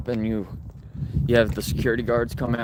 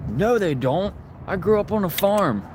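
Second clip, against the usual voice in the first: much higher and louder, squealing indignantly; mocking freaked-out lady; 12 semitones higher, 3 dB louder than usual. Retelling the lady at the store, high mock squeal. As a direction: mimic the shrill grocery store lady. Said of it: "And she freaked out".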